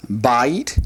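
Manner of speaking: "bait" in two syllables, the first stressed; accent the first part of Hebrew "bait", not the last. Shown as a demonstration. Teacher reads Hebrew "bait" aloud, accent on first syllable. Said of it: "the accent is on".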